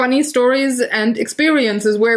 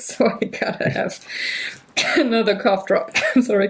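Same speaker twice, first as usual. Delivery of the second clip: speaking through held-back, stifled laughter. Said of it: "I'm laughing already or try to suppress loud laughing".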